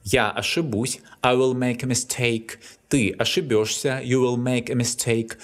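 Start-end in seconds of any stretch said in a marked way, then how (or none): 0.0-1.0 ошибусь with stress on final бусь; Я ошибусь, leaning on the ending. Shown as a demonstration. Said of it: "stressed on the ending". 2.9-4.0 ошибёшься with stress on бё; Ты ошибёшься, leaning on the ё of the ending. Shown as a demonstration. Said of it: "all its forms are stressed on the ending".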